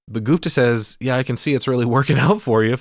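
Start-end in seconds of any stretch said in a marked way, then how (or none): 1.0-2.7 snide, sarcastic, shade-throwing tone. Retelling a movie scene, quoting Gupta's reply: imitating a sarcastic jab. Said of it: "fucking throwing shade at this dude".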